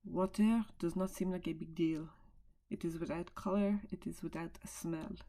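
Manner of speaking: put-on French accent, measured delivery; attempted French accent. Shown as a demonstration. Teacher translating the French clip for her class, attempted French accent. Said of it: "in my best accent now".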